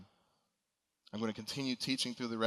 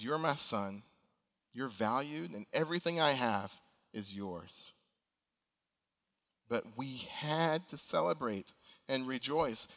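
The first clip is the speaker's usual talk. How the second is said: gentle father. Acted. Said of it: "answers him gently".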